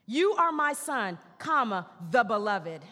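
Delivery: "the" weighted before beloved; stress on THE. Shown as a demonstration. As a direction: hit "the beloved". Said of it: "Articles matter".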